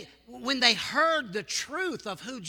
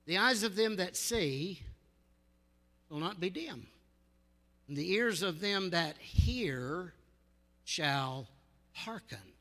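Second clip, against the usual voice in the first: reading in disbelief. Shown as a demonstration. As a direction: savor each phrase, fading to a hush. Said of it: "Let me read that again".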